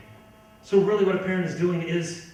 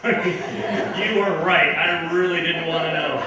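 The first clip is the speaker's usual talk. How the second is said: laughing mock thanks; 4 dB louder, slower than usual.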